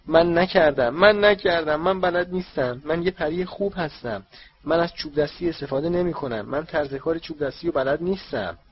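high, loud frantic house-elf cry; shrieking elf. Acted. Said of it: "وینکی جیغ زد".

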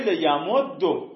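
لیمد دو slowed, ending on o; slow demo of لیمد دو with damma. Shown as a demonstration. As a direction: say لیمد دو slowly with a final o. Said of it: "چهار نمونه میشه".

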